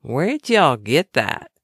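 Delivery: a kind Texan lady, drawn out and slow; Texan drawl. Retold or imitated. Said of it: "asked in her Texan drawl".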